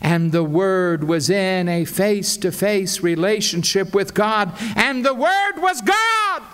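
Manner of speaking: mounting, climactic proclamation; building to climax. Shown as a demonstration. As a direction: build steadily and peak triumphantly on "the Word was God". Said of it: "there's no climax".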